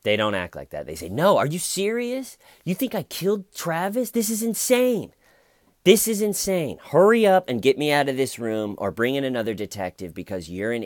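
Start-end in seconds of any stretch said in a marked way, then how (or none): 1.1-10.8 high-pitched, indignant protest; incredulous outburst, pitched way up; outraged disbelief. Acted. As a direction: erupt as a wrongly accused suspect. Acts outraged innocent suspect being questioned.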